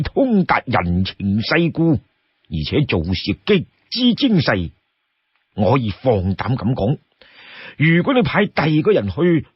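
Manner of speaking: lightly voiced older comrade vouching for someone; Lu Junyi. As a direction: reassure firmly and unhurriedly. Voices Lu Junyi reassuring leader.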